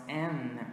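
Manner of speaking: N said as "en", ending with lips apart; open-mouth N. Shown as a demonstration. Teacher separating N from M, N ending with lips open. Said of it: "I open my mouth".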